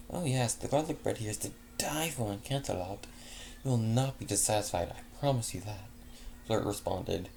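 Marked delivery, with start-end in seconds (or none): 0.1-5.9 lightly raised, gracious pony mare voice; a hint of a refined, kindly hostess; refined unicorn lady recommending bread; Fleur's voice. Fleur praises garlic bread.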